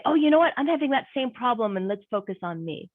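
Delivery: lightly voiced eager interrupter; a touch of hammed-up me-too; mock self-centred butting in. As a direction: jump in, making it all about yourself. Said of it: "not an opportunity for me to say".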